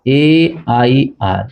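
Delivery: ए आई आर spelled letter by letter, very slowly; ए आई आर drawn out letter by letter; spelling out letters. Retold or imitated. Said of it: "आप बोलेंगे".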